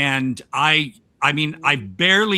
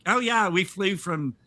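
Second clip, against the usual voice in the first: put-on New Zealand accent, slightly higher; attempted New Zealand accent; 4 semitones higher than usual. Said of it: "I'm trying to do an accent now".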